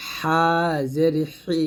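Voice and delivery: হা জের হি with হা and হি squeezed from mid-throat; pressed throat ha. Shown as a demonstration. Teacher models the second ha, h squeezed in হা and হি. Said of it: "এটা হবে হা চাপ দিয়ে".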